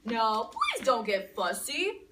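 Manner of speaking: soothing daddy. Acted. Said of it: "said her daddy".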